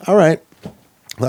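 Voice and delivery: high, slowed, drawn-out all right well; mentor cutting him off. Retold or imitated. Old mentor halting the confession reading, lightly voiced drawn-out interruption. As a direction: stretch it out to stop him mid-reading.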